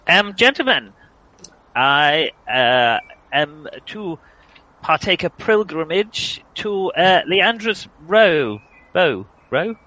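lightly pompous theatrical speech; grand, flowery stage delivery; hammy stage actor. Acted.

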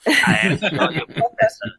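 loud, high insistent claim; booming assurance. Acted. Seer insisting loudly to the professor. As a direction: thrust the words out at him. Same line, now loud.

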